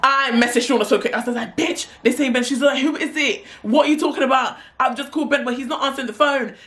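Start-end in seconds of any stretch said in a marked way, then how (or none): 1.5-6.5 high, urgent retold phone panic; hurried back-and-forth in a raised pitch; panicked. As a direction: act out two friends panicking. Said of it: "now we're both panicking".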